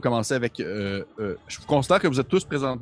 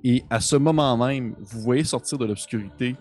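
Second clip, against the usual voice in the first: game master narration; 3 semitones lower than usual. Acted. Game master sets the boss scene.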